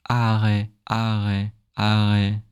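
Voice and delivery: "arrêt" with a breathy R, air passing through; airy French R. Shown as a demonstration. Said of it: "if you let the air pass".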